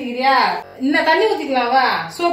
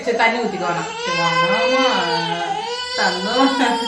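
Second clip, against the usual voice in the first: reassuring; 5 semitones lower, 3 dB quieter, slower than usual. Real, not acted. Reassuring crying baby, no more water.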